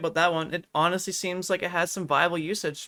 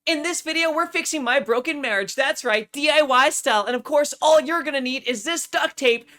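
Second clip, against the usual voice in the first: higher, upbeat presenter voice; DIY tutorial host; 3 semitones higher than usual. Acted. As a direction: sell it like a cheesy how-to host.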